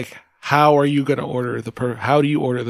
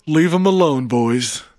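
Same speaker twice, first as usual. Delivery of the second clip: put-on New Jersey accent; slower than usual. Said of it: "What kind of accent do you put on?".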